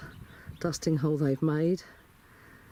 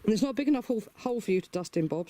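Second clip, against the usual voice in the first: higher voice, teasing reproach; pleading scold; 6 semitones higher, much faster than usual. Real, not acted. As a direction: chide the bird in a high sing-song. Telling off chicken Bob.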